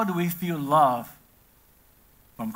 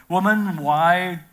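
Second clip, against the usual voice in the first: firm exclamation; 3 semitones higher, 6 dB louder than usual. Acted. Pastor voicing Jesus answering his mother, loud and firm. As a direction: push back on her request with force. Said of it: "And Jesus says".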